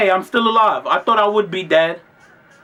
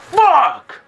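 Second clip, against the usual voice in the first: high-pitched frustrated outburst; exasperated curse; 10 semitones higher, 4 dB louder than usual. Retold or imitated. Giving in to her plan to go outside, exasperated. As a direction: curse as you give in. Reluctantly gives in to going.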